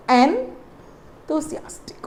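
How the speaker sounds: "enthusiastic" drawn out slowly with a clear th; slow demo pronunciation. Shown as a demonstration. Teacher shows students the right way, slow demo. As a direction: model "enthusiastic" slowly, leaning on the th. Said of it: "this has to be given a stress here".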